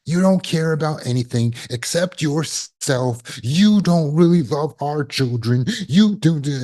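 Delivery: mock-furious narcissist going in for the kill; accusing attack. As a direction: hurl the blame at the spouse. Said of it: "hitting you where it hurts".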